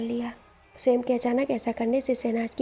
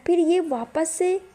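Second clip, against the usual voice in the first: exasperated whine; 6 semitones higher, slower than usual. Acted. Son complains about repeated ritual.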